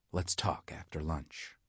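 soft, slow, hushed aside; slow hushed words to the cafeteria lady; whispered. Acted. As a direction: lean in and keep it secret.

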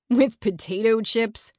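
amused, mock disbelief. A narrator's reading. Eddie jokes to his friends about the trail, amused. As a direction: scoff at it as if laughing. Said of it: "Eddie laughed".

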